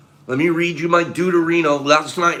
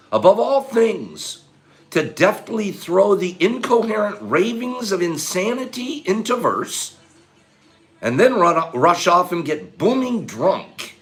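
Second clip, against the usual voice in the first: slow, weighty reading aloud; slow dramatic reading; 3 semitones higher, slower than usual. Acted. Reading a Twain quote to the chat, slow and weighty. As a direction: read it out like a solemn poem.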